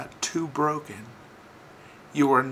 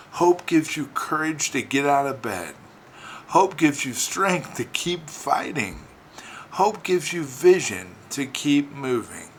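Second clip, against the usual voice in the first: raised, emphatic preaching in a driving list; forceful preaching; 3 semitones higher, 5 dB louder than usual. Real, not acted. Telling believers what hope gives them, forceful preaching. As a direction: drive each phrase home with force.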